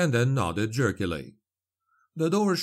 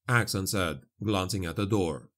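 ordinary delivery

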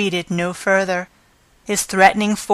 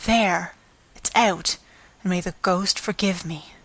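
much softer, fading murmur; under her breath; 6 dB quieter than usual. Acted. Concierge aside to herself, dropping her voice. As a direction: let it slip out under your breath. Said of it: "under her voice".

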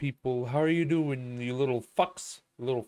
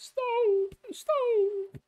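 much higher, cried-out mock "Stop!"; mock shrill yell. Streamer mocks people crying stop in a squeal. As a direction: squeal it like a panicking kid. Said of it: "That's all I hear is".

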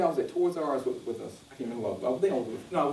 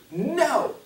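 emphatic no; 2 semitones higher than usual. Shown as a demonstration. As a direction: shove the words out like a hand off you. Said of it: "It has to be with fervor".

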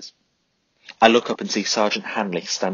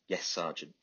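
much softer, calm answer; quiet reply; 2 semitones lower, 13 dB quieter than usual. A narrator's reading. Charlie answering the ranting sergeant, quiet and calm. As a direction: answer calmly, unmoved.

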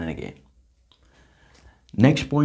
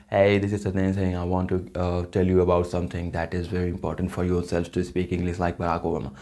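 Indian accent; 3 semitones lower than usual. Shown as a demonstration. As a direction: speak English as people in India do. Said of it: "if you talk about in India".

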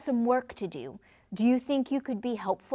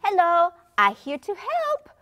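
put-on high, louder cheerful kid; eager announcement; 8 semitones higher, 6 dB louder than usual. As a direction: burst in ready to help. Child announces himself loudly.

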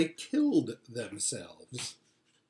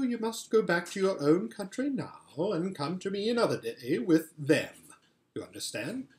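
a hint of a sweet, commanding queen; lightly voiced White Witch queen; 4 semitones higher than usual. Queen asking Edmund to bring his siblings, lightly regal. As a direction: coax the boy like a regal enchantress.

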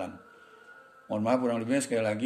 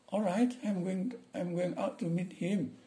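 servant voice; 9 semitones higher, slower than usual. Acted. Servant answering his boss.

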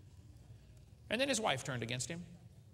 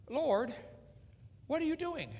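anguished cry to God; 11 semitones higher than usual. Acted. Job crying out to God.

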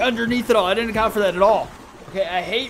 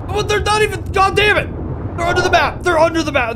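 high, loud outraged yelling; furious shout; 8 semitones higher, 5 dB louder than usual. Real, not acted. Player outraged that enemies hide under the map, shouting. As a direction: yell at the unfair game.

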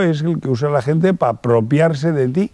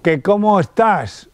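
higher and slow, asking yourself; a slow, raised question to yourself; 6 semitones higher than usual. Shown as a demonstration. Asking himself aloud.

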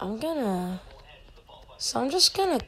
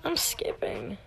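whispering; 7 semitones higher, 11 dB quieter than usual. Real, not acted. Voting quietly.

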